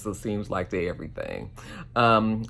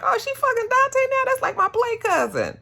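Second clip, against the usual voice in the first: much higher, hammed-up bad acting of a shocked line; mock bad actress. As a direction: overplay the gasp like a bad soap actress. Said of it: "you're such a bad actress".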